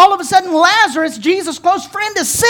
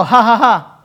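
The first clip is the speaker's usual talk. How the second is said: fake laugh; 6 semitones lower than usual. Shown as a demonstration. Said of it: "Everybody go".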